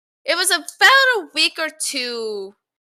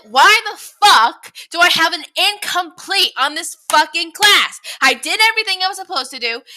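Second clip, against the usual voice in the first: retold outburst; 2 semitones higher than usual. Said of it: "And I'm, like, freaking out".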